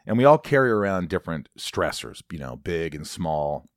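earnest ad read; earnest host reading a sponsor spot. Acted. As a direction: pitch therapy sincerely.

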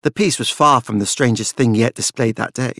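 plain reading voice

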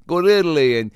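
high, sing-song mock of their plans; mocking dreamy couple. Comedian mocking the engaged couple's Italy plan, high and sing-song. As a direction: gush like a smitten fiancée.

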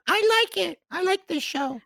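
put-on high, childish squeaky voice; baby voice. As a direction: mimic a little kid. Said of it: "I made, like, a baby voice".

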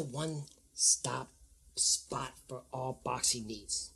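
slow, low promo voice; mock commercial read. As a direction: sell the app slowly and low. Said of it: "That sounds right, right?".

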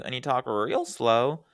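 slowly stretched quote of a lyric; imitating singer's drawn-out phrasing. Showing a friend how the singer says it, slow imitation. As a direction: draw the words out, imitating the singer lightly. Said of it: "the way she says it too".

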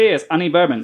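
hammed-up Australian reading voice; Australian accent. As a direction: read it in a broad Australian accent. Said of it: "read this in your best Australian accent".

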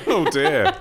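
"Oh, dear" said through a laugh. Real, not acted. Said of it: "it was the right reaction to say".

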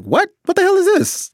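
high-pitched, loud incredulous outburst; mock shocked disbelief. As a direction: replay your stunned reaction, voice leaping way up. Retelling shock at actor's real accent.

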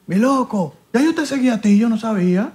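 retold excited driver. Retold excited driver recognising him.

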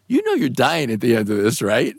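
offhand imitation of the boss; very casual. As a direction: toss it off casually, as if routine. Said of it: "he very casually goes".

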